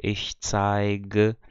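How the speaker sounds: zeige with a voiced hard G; G sound. Shown as a demonstration. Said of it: "vai ser o som do G".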